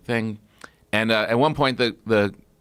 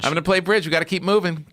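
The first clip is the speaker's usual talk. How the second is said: imitating Nana; 8 semitones higher, faster than usual.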